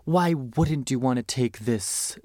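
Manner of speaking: slow, lightly put-on Isabella Rossellini accent; a loose stab at Isabella Rossellini's accent; terrible Isabella Rossellini accent. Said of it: "that's terrible Isabella Rossellini accent".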